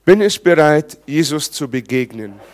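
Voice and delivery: preaching shout. Acted. Preaching climax, music.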